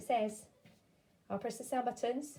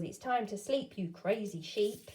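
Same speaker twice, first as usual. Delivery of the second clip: slow playful read-aloud; reading a storybook line to a child; reading a line from a book. Retold or imitated. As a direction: lilt it like a picture book. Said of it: "Now book was".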